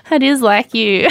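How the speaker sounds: giggling through it; laughing. Real, not acted. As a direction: tease while laughing. Laughing at listener.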